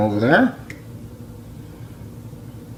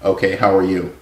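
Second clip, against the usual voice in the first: southern twang toned down; 3 semitones lower than usual. Pretend. Cook switching off his southern twang for the phone caller, toned down. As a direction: lower voice, southern twang reined in. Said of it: "let me turn off my southern twang".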